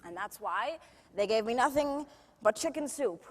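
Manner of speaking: lightly voiced showbiz star reminiscing; theatrical, self-mocking raconteur; Judy Garland. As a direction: tell wry backstage stories to an audience. Judy Garland monologue, after plain introduction.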